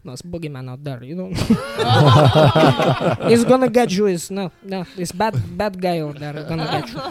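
put-on Polish grandpa accent. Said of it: "his accent".

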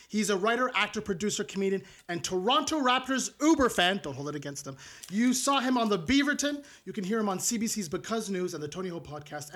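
normal talking voice

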